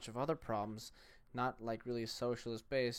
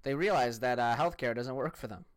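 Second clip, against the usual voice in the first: mocking quote. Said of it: "and he said".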